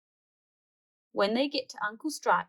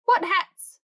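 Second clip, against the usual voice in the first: put-on much higher, louder child question; indignant child; 10 semitones higher, 8 dB louder than usual. Bluey to forgetful Dad, high indignant question. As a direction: ask sharp like a puzzled kid.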